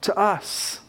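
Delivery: gentle hushed aside; softly spoken. Shown as a demonstration. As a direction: drop to a near-whisper on these words. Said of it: "he still whispers".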